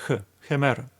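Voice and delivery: "hemera" with a gentle, light h. Shown as a demonstration. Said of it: "I'm going to use softer pronunciation".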